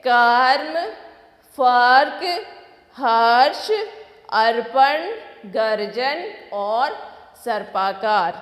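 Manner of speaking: कर्म, फर्क, हर्ष repeated loud, each word on its own; loud repetition drill. Shown as a demonstration. Teacher repeats the word list for the children. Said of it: "फिर से दोहराएंगे".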